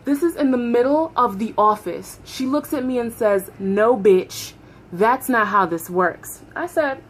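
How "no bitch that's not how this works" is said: slower, deliberate retelling of a refusal; measured retold refusal. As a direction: lay it out word by word, slowly. Repeats the refusal, more measured.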